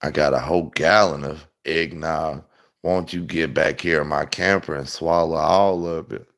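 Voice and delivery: hammed-up creepy camper man; creepy come-on.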